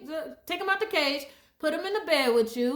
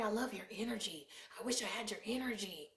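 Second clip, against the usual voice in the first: mimicked admirer; 6 semitones lower, 15 dB quieter than usual. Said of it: "somebody has told me".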